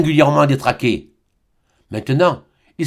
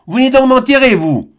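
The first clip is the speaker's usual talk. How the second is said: high, loud, rough retort; gruff growl; 9 semitones higher, 4 dB louder than usual. Acted. Old man growling at the doctor and priest, rough and loud. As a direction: growl it out at the intruders. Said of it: "gronda le vieillard rudement".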